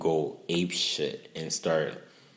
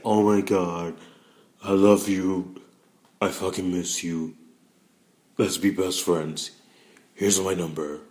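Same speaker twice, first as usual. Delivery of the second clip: put-on gushing drunk self; 3 semitones higher, 8 dB louder than usual. Imitating her drunk self to viewers, loud gushing love. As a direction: slur out affection like a happy drunk. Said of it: "Me drunk is like".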